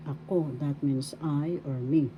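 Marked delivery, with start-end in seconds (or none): 0.1-0.5 ako with the accent on KO; stress on second syllable. Shown as a demonstration. Teacher shows learners the accent, second syllable of ako stressed. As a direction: lean on the final KO in ako. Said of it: "Second syllable has the accent".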